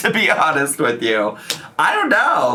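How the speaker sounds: light laugh running through words, lightly swooping pitch. Sharing thoughts with viewers, chuckling.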